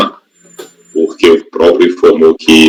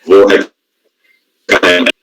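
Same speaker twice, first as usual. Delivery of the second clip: slow, glitchy robotic audio; warbled robot voice from a frozen call; much slower than usual. Real, not acted. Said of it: "tá congelado e com voz de robô".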